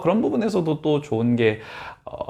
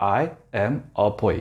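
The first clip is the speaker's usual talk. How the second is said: put-on choppy I, am, a, boy, each word cut off; 3 semitones lower than usual. Showing how word-by-word reading sounds: pauses between i, am, a, boy. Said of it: "약간 이런 식으로 툭툭 끊긴단 말이에요".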